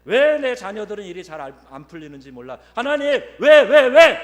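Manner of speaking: whining complaint building to a high, loud shout; arguing with God. Retold or imitated. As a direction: start aggrieved, end yelling why at heaven. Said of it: "하나님께 따지는 거예요".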